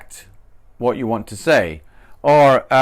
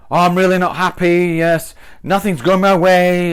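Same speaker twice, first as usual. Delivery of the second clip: higher, louder melodramatic moan; overly dramatic; 4 semitones higher, 4 dB louder than usual. Shown as a demonstration. Teacher demos being too dramatic all the time. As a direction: ham up the misery. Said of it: "It's a bit sort of dramatic".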